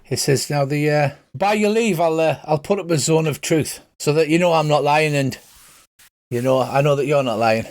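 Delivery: a friendly Irish priest welcoming strangers; Irish accent. Acted. Father Dougal welcomes the axe-carrying fighter, light Irish accent. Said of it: "pretend Colin Farrell accent".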